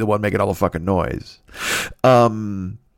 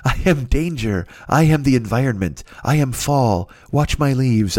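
higher, slow and airy like a self-serious guru; mock Tai Chi guru; 3 semitones higher, slower than usual. Mocking a stretching yogi, hammed-up slow mystic voice. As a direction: drag it out like a zen master who takes himself too seriously. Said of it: "be that fucking Tai Chi asshole".

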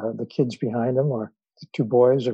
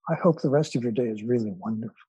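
sincere; 3 dB quieter, faster than usual. Retold or imitated. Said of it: "like he really meant it".

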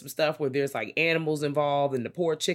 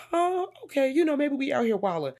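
mock surprise; 12 semitones higher than usual. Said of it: "I'm just like".

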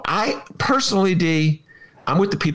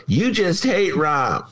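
slow, mocking jab at a friend; mocking Romano; 2 semitones higher, slower than usual. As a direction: drawl it out like a teasing colleague. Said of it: "Romano go".

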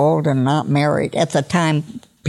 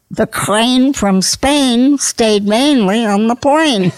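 slow punchline breaking into real laughter; can't hold it together on the last line, giggling; drawn-out pun line, cracking up; laughing through the punchline; 6 semitones higher, 4 dB louder, slower than usual. Real, not acted.

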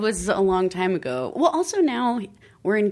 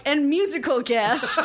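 show announcer; 8 semitones higher than usual. Acted. Imitates show announcer at wedding.

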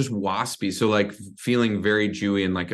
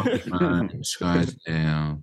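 slow nasal Jewish New York voice; nasal Jewish accent; 5 semitones lower, much slower than usual. Acted. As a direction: drag out Scottsdale through the nose. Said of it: "that nasal Jewish accent".

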